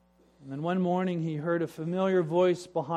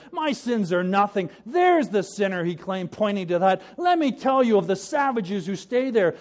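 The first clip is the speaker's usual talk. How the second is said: loud, higher, scornful; smirking dismissal; 4 semitones higher, 7 dB louder than usual. Acted. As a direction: brush off your own guilt. Smirking brother deflects.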